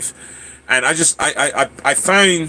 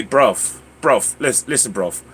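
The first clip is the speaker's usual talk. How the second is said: British accent; slower than usual. Shown as a demonstration. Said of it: "you wanna talk posh".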